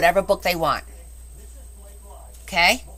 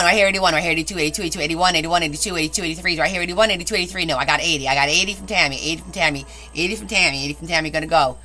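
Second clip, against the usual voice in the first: lower-pitched, hammed-up auctioneer bid calling; auctioneer impression; 5 semitones lower, much faster than usual. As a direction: rattle off repeated bids like an amateur auctioneer. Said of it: "Do I sound like one of them".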